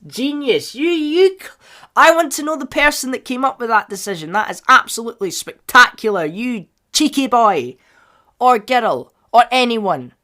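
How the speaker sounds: high, loud, overjoyed praise; real gushing excitement. Real, not acted. Fan gushing over a casting decision.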